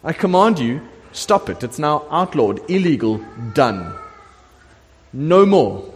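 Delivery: mock royal outburst, high and loud at first, then firm; upset king. Preacher playing the king halting the temple building, upset. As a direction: splutter in protest, then lay down the law. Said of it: "the king gets so upset".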